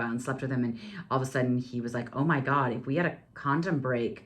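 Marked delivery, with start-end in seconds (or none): 2.2-4.1 retold panic, rising higher and louder; freaked out. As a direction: imitate a man freaking out, quickening. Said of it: "He got really freaked out".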